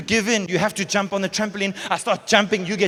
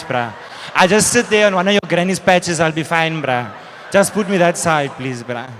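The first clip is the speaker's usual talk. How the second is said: pleading mantis. Retold or imitated. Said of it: "praying mantis like".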